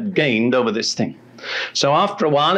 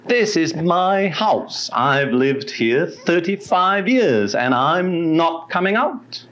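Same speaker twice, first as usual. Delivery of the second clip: slow, higher, defiant drawl; insolent demon voice; 4 semitones higher, slower than usual. Retold or imitated. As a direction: drag it out, sneering and unyielding. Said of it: "this insolent voice, which was not the least bit like the woman's voice".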